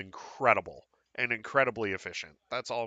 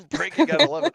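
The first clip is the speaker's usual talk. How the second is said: breaking news; 14 semitones higher, 8 dB louder, faster than usual. Pretend. Echoes the news tease.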